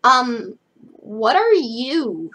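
loud "um", then a drawn-out question; blurted question. Acted. Frankie unsure of the polite way to ask, blurting. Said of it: "she blurted".

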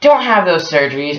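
put-on a poor stab at a British accent; British grandma. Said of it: "And it's all in British".

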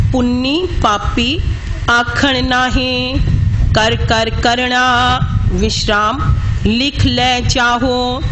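slow, measured recitation with drawn-out endings; scripture recitation. Shown as a demonstration. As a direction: recite phrase by phrase, pausing at each marked rest. Teacher recites scripture phrase by phrase. (ਠਹਿਰ ਠਹਿਰ ਕੇ ਗੁਰਬਾਣੀ ਪਾਠ)

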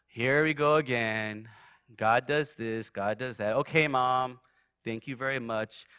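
mock-patient son brushing off his mom; low-key, resigned lilt, humouring her; retold weary dismissal. Inwardly dismissing his mom's talk.

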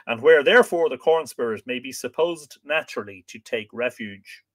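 deliberate narration with lifted phrase openings; book reading aloud. A narrator's reading. Reading about Shropshire harvest customs to listeners, measured narration. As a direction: read it out clearly to an audience.

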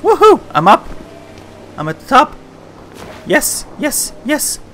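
loud, high victory whoops; triumphant cheering. Real, not acted. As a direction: cheer it like you finally won. Reaches the top after failing.

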